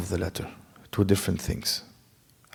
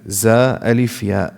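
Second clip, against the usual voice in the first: "Za alif ya." spelled out slowly; slow spelling. Shown as a demonstration. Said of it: "spells the letter slowly".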